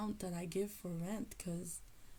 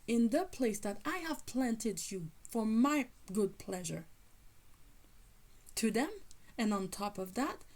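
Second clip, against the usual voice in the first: louder, hammed-up divine scolding; retold fury; 2 semitones higher, 4 dB louder than usual. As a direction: rant on, imitating a furious parent. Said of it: "This is how angry I am".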